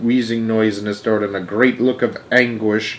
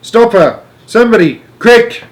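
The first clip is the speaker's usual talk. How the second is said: high, urgent shouts; alarmed shouting; 10 semitones higher, 7 dB louder than usual. A narrator's reading. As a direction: shout for help in a panic. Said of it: "shouted Grandpa Joe".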